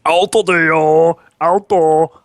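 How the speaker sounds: loud, high, drawn-out mocking call; smart-ass snide remark. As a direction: imitate an old man calling out snidely, slow and loud. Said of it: "was, like, a smart-ass snide".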